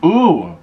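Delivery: short appreciative ooh, rising then dropping; delighted ooh. Real, not acted. Loving a good meatball, delighted ooh. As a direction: coo over tasty food.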